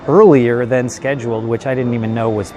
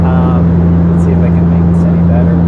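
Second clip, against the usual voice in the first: raised voice over loud propellers; talking over engine noise; 6 dB louder than usual. Real, not acted. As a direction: speak up over a noisy cabin. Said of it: "so that's why it's so loud right now".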